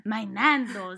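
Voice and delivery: lightly put-on British accent; mild mock British; fake British accent. Shown as a demonstration. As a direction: try a British-sounding accent. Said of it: "That was British".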